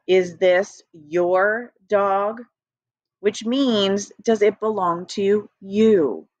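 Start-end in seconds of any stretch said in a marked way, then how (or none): 0.1-2.4 "Is this your dog?" reread slowly. Shown as a demonstration. Teacher rereading slowly to explain your.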